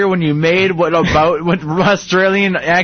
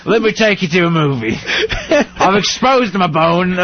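Australian dad; 2 semitones higher, slower than usual. Pretend. Plays injured Australian dad telling his son.

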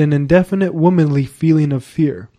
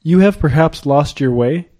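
gentle questioning lift on "way"; polite inquiry, "way" turned up as a question; inquiring; 2 semitones higher than usual. A narrator's reading. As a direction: ask "You have perhaps lost your way?" with "way" rising at the end. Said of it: "said inquiringly".

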